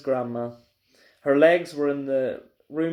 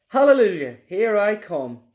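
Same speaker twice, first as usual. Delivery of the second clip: excited cry; 5 semitones higher, 5 dB louder than usual. Acted. Grandma rising through the floor.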